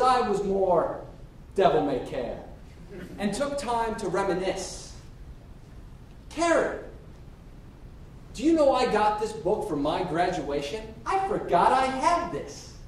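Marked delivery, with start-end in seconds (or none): 6.3-12.7 lightly acted excitement over an old find; fond reminiscing. Packer shows Carrie his old graduation book, delighted. Reminiscing aloud while packing.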